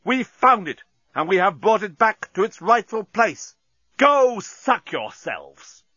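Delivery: high, impassioned declamation; ringing defiant speech. A narrator's reading. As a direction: proclaim your grievance to the enemy fleet. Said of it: "his voice rang round".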